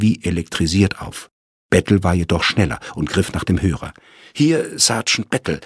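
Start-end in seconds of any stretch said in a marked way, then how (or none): 4.3-5.6 hoarse answer, pitched higher; hoarse, higher telephone greeting. Acted. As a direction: snap up the phone, voice hoarse from waiting. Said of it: "meldete er sich mit heiserer Stimme".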